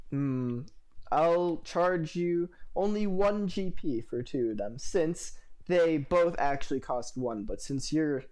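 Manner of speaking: slow, coy bartender voice; flirty bartender. Acted. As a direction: draw it out, teasing the customer.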